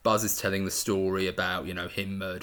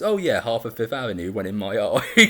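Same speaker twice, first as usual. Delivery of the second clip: louder, hammed-up old Brooklyn speak; playful imitation of old-time Brooklyn talk; 1920s Brooklyn accent; 7 dB louder than usual. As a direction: quote it in mock Brooklyn slang voice. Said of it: "I love nineteen twenties Brooklyn speak".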